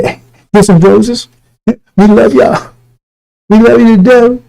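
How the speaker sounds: slow, drawn-out mock sweetness; syrupy put-on affection, rising in pitch; mock loving preachers. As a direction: stretch it out like a fake-loving preacher. Acts out preachers sent with roses.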